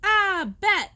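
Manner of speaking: high startled shout; scared shout. Acted. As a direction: yelp at the bat. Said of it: "shouts Poppy".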